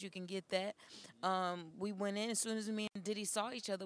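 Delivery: usual speaking voice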